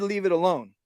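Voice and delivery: firm, level command to the dog; steady order to the dog. Shown as a demonstration. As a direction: tell the dog to leave it, no nonsense. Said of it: "because you said".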